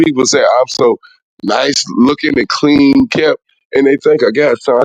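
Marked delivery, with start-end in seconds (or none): none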